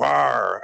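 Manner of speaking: imitated "arr" growl; mock caged-beast growl. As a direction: growl on demand for a photo. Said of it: "put your hands on the cage and go".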